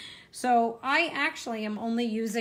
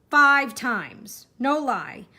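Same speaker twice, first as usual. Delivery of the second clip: emphatic; 3 semitones higher, 6 dB louder, much slower than usual. Real, not acted. Exasperated about restamping.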